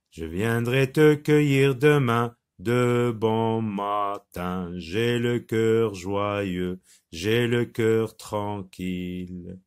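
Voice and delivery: slow, measured chant-like recital with sustained vowels; poem recitation. Shown as a demonstration. Teacher models the poem for pupils to repeat, slow recitation. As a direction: recite it evenly for children to repeat, drawing out each syllable. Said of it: "on va essayer d'interpréter. Vous répétez après moi".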